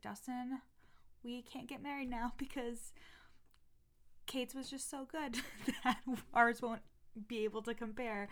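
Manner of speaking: joking mock plea. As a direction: plead jokingly with your fiancé, breaking into laughter. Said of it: "I was like, ... I'm just kidding".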